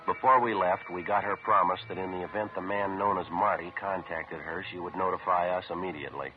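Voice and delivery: clipped radio detective narration; deadpan police report narration; old radio show. A narrator's reading.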